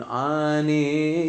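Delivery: ANE sung out with a light single n; soft nun. Shown as a demonstration. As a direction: keep the n of Ane soft, lengthen the vowels. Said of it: "to be merpeh the nun".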